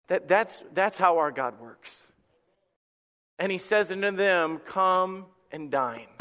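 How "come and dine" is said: tender invitation. Acted. God invites disciples, slow tender.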